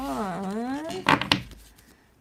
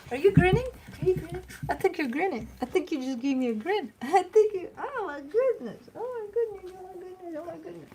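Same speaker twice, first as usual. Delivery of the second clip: much higher, sing-song cooing; 10 semitones higher than usual. Real, not acted. Owner cooing at her grinning dog, high baby talk.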